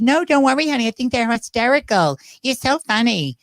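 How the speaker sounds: fond imitation of a pop singer; pop singer impression. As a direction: comfort him like a gracious star. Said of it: "that's my Gaga impersonation".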